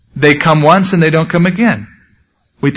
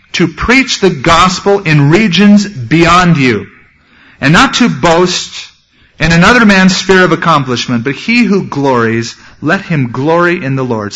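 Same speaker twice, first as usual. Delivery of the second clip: measured preacher reading the text; scripture reading. Acted.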